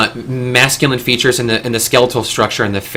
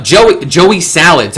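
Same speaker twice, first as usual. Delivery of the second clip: lightly put-on silly voice, higher pitched; Joey Salads; 5 semitones higher, 4 dB louder, slower than usual. Introducing a YouTube prankster to listeners, in a mildly ridiculous imitated voice. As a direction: say it higher, with a hint of ridiculous impersonation. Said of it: "I'm sorry I'm doing this ridiculous voice".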